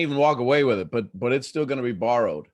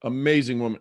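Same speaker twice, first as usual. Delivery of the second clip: ordinary talk, nothing marked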